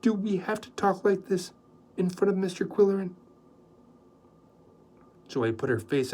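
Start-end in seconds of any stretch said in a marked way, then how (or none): 0.0-3.1 calm them gently; Rosemary protesting gently; gentle. A narrator's reading. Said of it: "in her gentle voice".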